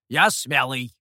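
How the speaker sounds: loud proud boast; triumphant boast. A narrator's reading. The demon boasts triumphantly to Guei. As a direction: crow about being brave.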